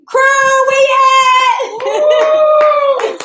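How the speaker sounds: high, loud call to the crew; rally the crew with a whoop; hype call. Real, not acted. Host hyping up her crew off camera, loud and high.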